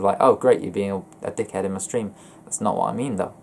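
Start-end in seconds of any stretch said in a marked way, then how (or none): 0.2-2.1 passive aggressive. Retold or imitated. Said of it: "come across passive aggressive".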